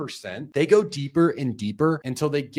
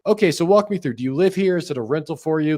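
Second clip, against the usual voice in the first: flat, checklist reading of questions; bad rep reading off a script; robotic rep questions; 4 semitones higher, faster than usual. Shown as a demonstration. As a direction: rattle them off like a form. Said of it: "they'll do something like this".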